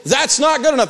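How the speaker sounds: "That's not good enough" high and deliberate; emphatic demonstration. Shown as a demonstration. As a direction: stretch "That's not good enough" as a firm stock reply. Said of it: "you say".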